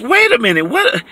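quick, rising, confused "wait a minute, what?"; puzzled double take. Retold or imitated. A reader puzzled by Hebrews, a sudden baffled rise. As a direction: catch yourself mid-read, baffled. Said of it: "it's like".

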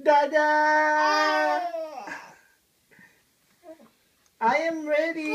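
long, drawn-out singsong call; playful call, vowels held long; calling for Dada. Pretend. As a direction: call out for dad on a baby's behalf. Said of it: "have to call my dada".

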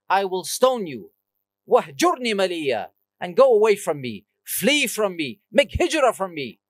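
mildly stern quoted rebuke; lightly acted indignant threat, firm emphasis; harsh retold reply. Father rejecting his son's call, mildly harsh. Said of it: "responded with such harshness".

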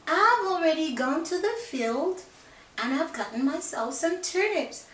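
high little pig, teasing. Acted. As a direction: gloat in a high squeak. Pig gloats.

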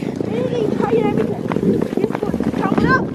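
loud, high calls from the skateboard; shouting back. Acted. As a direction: yell back while riding. Shouting back while riding downhill.

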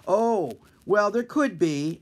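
put-on chirpy kid doctor, lightly; young intern voice.

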